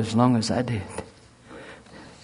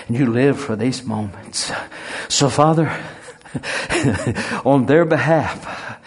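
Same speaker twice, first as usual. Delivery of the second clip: fervent prayer. Acted. Pastor praying over the congregation's loved ones, fervent. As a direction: pray it up with growing fire.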